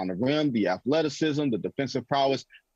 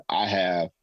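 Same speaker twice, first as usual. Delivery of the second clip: much lower, smug confident musing; imitating Pelinka; 5 semitones lower than usual. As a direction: think aloud low and self-assured. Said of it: "He was thinking".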